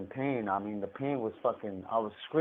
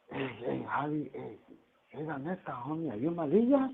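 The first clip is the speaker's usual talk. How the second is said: furtive cop; 3 semitones higher than usual. Retold or imitated. Mimics a cop calling over discreetly.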